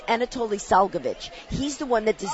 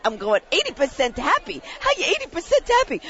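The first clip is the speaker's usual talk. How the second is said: incredulous pilot; 5 semitones higher than usual. Retold or imitated. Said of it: "He goes".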